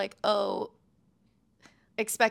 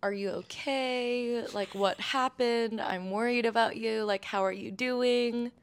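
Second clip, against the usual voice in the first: concerned parent; slower than usual. Retold or imitated. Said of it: "was there ever a conversation like".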